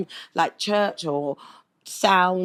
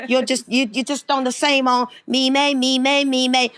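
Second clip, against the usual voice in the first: mocking brother; 3 semitones higher than usual. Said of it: "brother took the living piss".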